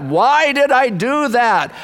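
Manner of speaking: anguished cry. Shown as a demonstration. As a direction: cry it out in regret.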